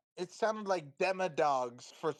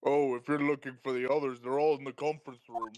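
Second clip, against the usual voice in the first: deep voice; 3 semitones lower than usual. Acted. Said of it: "Okay, I can do deep voices".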